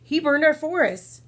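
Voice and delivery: accusing. Acted.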